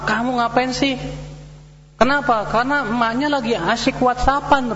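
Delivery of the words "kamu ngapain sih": put-on a mother snapping at her child, pitched high; mock scolding from a busy mom; angry mother. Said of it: "Emaknya marah". (ibu membentak anaknya dengan nada tinggi)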